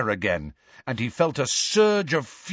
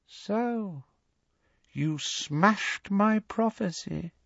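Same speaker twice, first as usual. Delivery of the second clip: high, soft, slow menace; softly; 9 semitones higher, 7 dB quieter, slower than usual. A narrator's reading. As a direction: let it out slowly, coldly quiet. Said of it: "said Voldemort softly".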